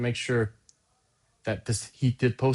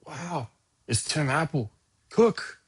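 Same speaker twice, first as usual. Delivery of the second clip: reading out Trump's post; 5 semitones higher, slower than usual. Retold or imitated. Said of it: "he said".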